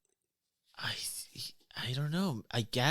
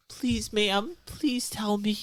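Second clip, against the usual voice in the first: high-pitched acted plea; begging on knees; 9 semitones higher, slower than usual. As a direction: implore her in a high voice. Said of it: "She falls to her knees".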